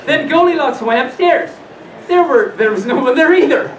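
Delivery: put-on animated read-aloud to children; lilting storyteller with swooping pitch; storybook reading. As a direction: read it like a bedtime fairy tale.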